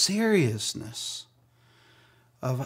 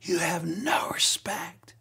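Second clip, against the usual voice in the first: laid into me; 6 semitones higher, slower than usual. Retold or imitated. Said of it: "she just laid into me".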